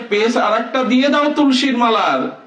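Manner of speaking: high, lightly put-on voice of the god; voicing Krishna. Preacher voices Krishna's request.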